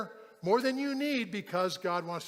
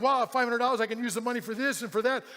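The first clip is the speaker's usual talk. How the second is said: loud, raised-pitch retold excitement; amazed; 4 semitones higher, 5 dB louder than usual. Worker planning how to spend the bonus, excited. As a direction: imitate someone thrilled by a windfall. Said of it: "he's in shock".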